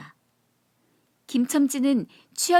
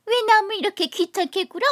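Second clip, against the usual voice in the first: much higher mock woman's voice; imitating the young lady; 10 semitones higher, 5 dB louder than usual. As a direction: mimic her prissy snap. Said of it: "그 소리야말로 꾀꼬리 소리지". (아가씨 흉내 내며 높은 목소리로)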